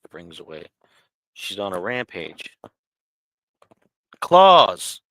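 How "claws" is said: sudden high yelp of pain. Real, not acted. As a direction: yelp as claws dig in. Cat clawing streamer on live.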